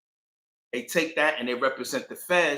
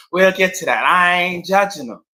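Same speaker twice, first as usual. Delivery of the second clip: still laughing; 4 semitones higher, 10 dB louder than usual. Real, not acted. Still laughing after aside.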